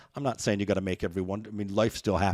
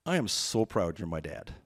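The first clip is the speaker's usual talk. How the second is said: tender pride; 5 semitones lower, 3 dB quieter than usual. Retold or imitated. Daughter's tender payoff, retold.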